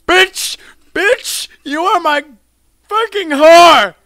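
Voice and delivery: high, full-voiced yelling at the enemy; gamer trash talk. Player to game enemy, high screamed trash talk. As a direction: scream taunts at the top of your voice.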